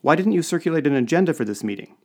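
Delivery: high, loud accusatory question; accusing. A narrator's reading. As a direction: demand it, laying the blame on the listener. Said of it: "asked one of the trade commissioners accusingly".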